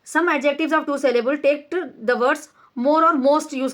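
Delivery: slow, deliberate reading of a grammar rule; measured classroom dictation; slow textbook reading. Shown as a demonstration. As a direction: read each word out slowly for the class. Reads textbook rule aloud.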